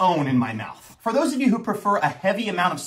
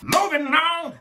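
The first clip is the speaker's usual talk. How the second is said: excited transition; 9 semitones higher, slower than usual. Real, not acted. Segment transition call.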